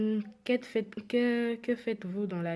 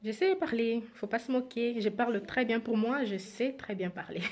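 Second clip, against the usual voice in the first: higher, louder mock protest; playful self-defence; 5 semitones higher, 4 dB louder than usual. Real, not acted. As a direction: insist jokingly, breaking into a laugh at the end. Jokingly defends her language skills.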